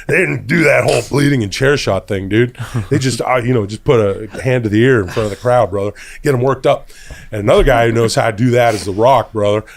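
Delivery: gravelly wrestler promo voice; hammy wrestling promo; Hulk Hogan voice. Acted. Hulk Hogan voice running the bit.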